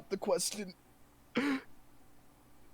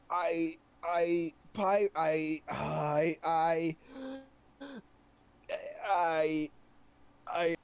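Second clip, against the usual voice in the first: stammering; slower than usual. Acted. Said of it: "sitting there stammering".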